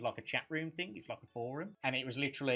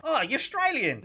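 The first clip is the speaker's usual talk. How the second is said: much higher, louder exclamation; mock excited stranger; 11 semitones higher, 7 dB louder than usual. Stranger guessing the British visitor's origin, mock excited. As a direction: imitate a stranger's loud, thrilled guess. Retold strangers mistaking his accent.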